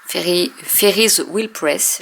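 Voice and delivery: "Ferry, Ferry's Wheel Press" slowly sounded out, restarting on "Ferry"; stumble, then carefully sound out "Ferry's Wheel Press"; struggling with English name. Shown as a demonstration. Vlogger fumbling the brand name for viewers, slow and hesitant. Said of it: "J'arrive jamais à le dire".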